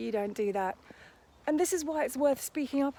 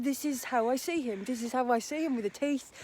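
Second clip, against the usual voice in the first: mock London accent. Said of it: "my impression is in a London accent".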